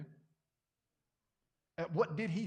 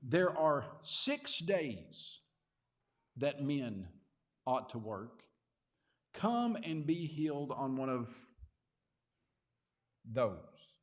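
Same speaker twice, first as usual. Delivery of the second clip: slow, measured and weighty, louder, like a leader addressing the synagogue; stately formal pronouncement; 3 semitones lower, 3 dB louder, much slower than usual. Retold or imitated. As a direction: deliver it with drawn-out, eloquent formality. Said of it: "in a very stately and formal and probably very eloquent way".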